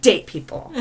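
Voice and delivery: slow, loud, emphatic declaration; mock indignation. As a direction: proclaim it as an absurd rule. Mockingly voices the Scorpio-hating date.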